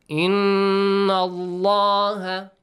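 إِنَّ with the doubled N held and nasal; nasal ghunna on inna. Shown as a demonstration. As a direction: hum the ن in إِنَّ through the nose. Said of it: "in, this N sound, nasal sound".

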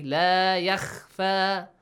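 yakhfa with a thin light kh; thin wrong kha. Shown as a demonstration. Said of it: "Don't say".

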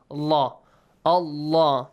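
"Allah" with a dark, heavy lam. Shown as a demonstration. Teacher modelling the word Allah for the class, heavy lam. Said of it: "heavy sound".

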